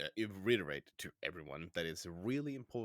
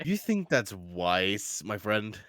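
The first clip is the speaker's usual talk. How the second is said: skeptical; 2 semitones higher, 5 dB louder, much slower than usual. Acted. Character questions another in camp.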